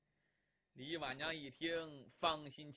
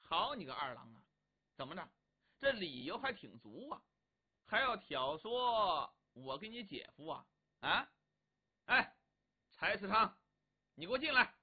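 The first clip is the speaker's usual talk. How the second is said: stern scolding. Acted. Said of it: "柳眉挑起来了".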